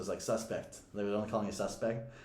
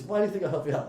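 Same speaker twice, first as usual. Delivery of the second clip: higher-pitched mock challenge; scornful guard; 6 semitones higher, 4 dB louder, much faster than usual. Guard to the handcuffed man asking for help, mock scorn. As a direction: imitate a guard scoffing at the request.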